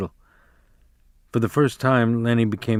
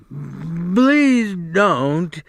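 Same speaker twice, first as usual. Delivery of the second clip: higher, a touch of pleading; begging; 6 semitones higher than usual. A narrator's reading. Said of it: "he begged".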